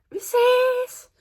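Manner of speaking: yelled goodbye that cracks way up high and loud. Retold or imitated. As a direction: shout it so the voice breaks upward into a squeak. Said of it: "det største og værste voice crack".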